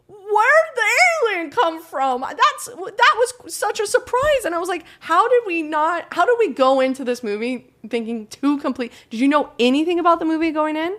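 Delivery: high squeaky mocking voice of a friend; mocking Drew impression. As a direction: squeak it out like a clueless buddy. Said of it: "don't sound like that".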